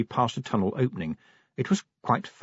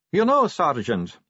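Sally's voice; 7 semitones higher than usual. Acted. Sally speaks as if nothing happened.

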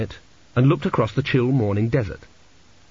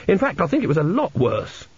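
higher-pitched, lilting son's voice; Two B, the son; 6 semitones higher than usual. Acted. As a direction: voice a son correcting his dad, pitched up.

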